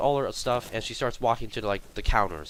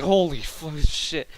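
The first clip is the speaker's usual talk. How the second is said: mock shock, pitched up; shocked coworker; 5 semitones higher, 4 dB louder than usual. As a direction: react as the startled coworker. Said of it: "pulled her hand back in shock".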